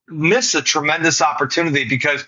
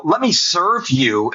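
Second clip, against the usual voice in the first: sincere offer; slower than usual. Shown as a demonstration. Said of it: "we gotta lead with giving".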